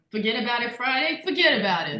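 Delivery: light attempt at Brooklyn; Brooklyn accent. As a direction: try a playful Brooklyn accent. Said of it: "do your best Brooklyn accent".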